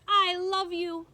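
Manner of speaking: slow, loud, high call; girl calling to her grandmother as the ship leaves; called out love. Acted. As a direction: shout it across the water. Abilene shouting from ship.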